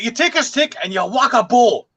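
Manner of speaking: put-on high, lively Scottish accent. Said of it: "he does it in the Scottish accent".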